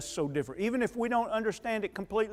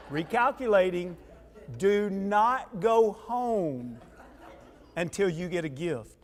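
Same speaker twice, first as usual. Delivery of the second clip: laughing through it. Real, not acted.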